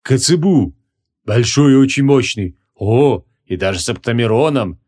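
understated gloating delight; enthusiastic. Acted. Animage answering what he sees, with a touch of rapture. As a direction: relish each discovery, mildly thrilled. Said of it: "восторженно отозвался он".

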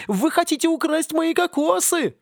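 high, slow screeching palm tree; wailing tree. Acted. Palm tree wailing at the coconut thieves, high and shrill. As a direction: screech like a furious crazed palm.

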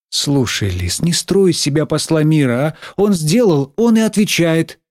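stern teacher. Acted. Teacher telling Лиз not to play peacemaker, reproving. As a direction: put the pupil in her place.

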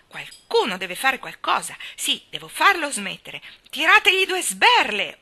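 building from firm to a furious shout; rising into a slow, furious yell; a girl losing her temper and shouting; beside herself. A narrator's reading. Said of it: "urlò fuori di sé".

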